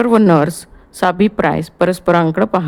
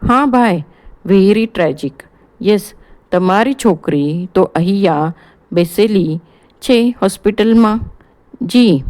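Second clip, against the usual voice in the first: growing serious. Acted. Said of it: "हळूहळू गंभीर होत".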